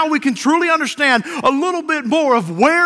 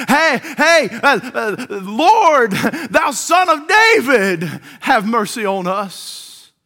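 crying out; slower than usual. Acted. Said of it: "crying out".

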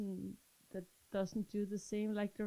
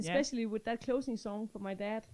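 heavy breathing; 6 dB louder than usual. Real, not acted. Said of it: "you're breathing heavy".

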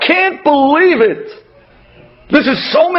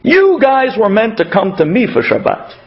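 excited; 4 semitones higher than usual. Retold or imitated. Excited neighbor quoted.

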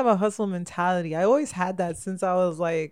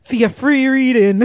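laughing psychic ad voice; 3 semitones higher, 7 dB louder than usual. Retold or imitated. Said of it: "Miss Cleo ad slogan".

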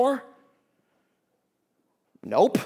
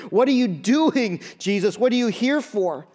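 demon voice; 3 semitones higher, slower than usual. Acted. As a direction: demand it like a frightened demon. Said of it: "he's like".

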